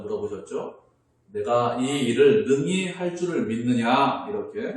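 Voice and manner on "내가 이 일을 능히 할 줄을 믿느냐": Jesus's question, slow and weighty; a preacher voicing Jesus, slow and solemn. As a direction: ask it slowly, with gravity. Jesus asks the blind men.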